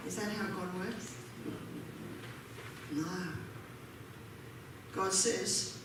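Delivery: ordinary talk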